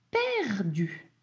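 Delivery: perdu stretched into two syllables, per-du, falling. Shown as a demonstration. Teacher breaking down a dictated word, perdu drawn out in two syllables. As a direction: sound out perdu slowly as per-du. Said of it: "Il y a deux syllabes".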